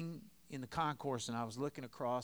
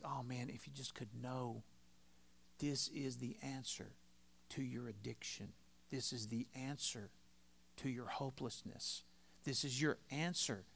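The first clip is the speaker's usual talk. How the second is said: brokenhearted plea; 6 dB quieter than usual. Acted. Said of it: "We do this with a broken heart".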